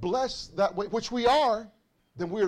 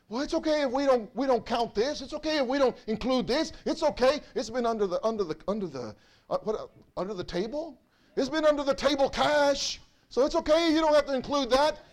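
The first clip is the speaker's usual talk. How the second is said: mock tax cheat; 3 semitones higher than usual. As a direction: talk yourself into cheating, breezily. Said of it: "And I".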